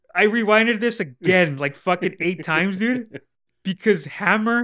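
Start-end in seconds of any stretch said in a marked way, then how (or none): none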